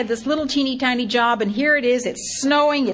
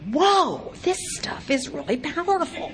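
high, laughing whoa; a touch of laughing amazement; amazed; 8 semitones higher than usual. Retold or imitated. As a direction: marvel at it, half laughing. Amazed inner thought, laughing.

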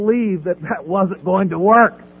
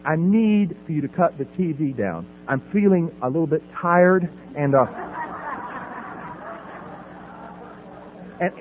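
calm treatment-speak; 4 semitones lower, 3 dB quieter than usual. Retold or imitated. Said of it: "I did it my best treatment motif".

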